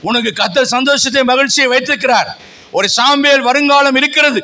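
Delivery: declaimed sermon in rhythmic, insistent phrases; fervent preaching. Real, not acted. Preacher telling the fearful that God is with them, fervent preaching. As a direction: press each question and promise on the listeners.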